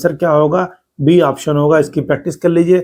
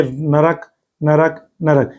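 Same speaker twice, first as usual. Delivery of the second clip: नरक repeated slowly; teacher drills the word; slow repetition; much slower than usual. Shown as a demonstration. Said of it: "ये शुद्ध माना जाता है".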